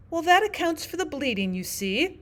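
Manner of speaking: high-pitched, smiling explanation; with a smile. A narrator's reading. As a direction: say it smiling to Alice. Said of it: "said to Alice with a smile".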